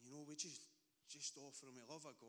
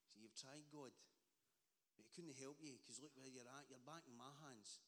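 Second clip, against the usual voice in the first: whispering enemy; 3 semitones lower, 6 dB quieter than usual. Retold or imitated. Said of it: "with that wee whispering voice".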